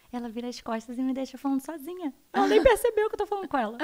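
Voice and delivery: amused laugh over the story; mother laughing about a daughter who ignores her. Real, not acted.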